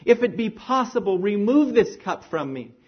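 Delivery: crying out. Retold or imitated. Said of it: "he cried out".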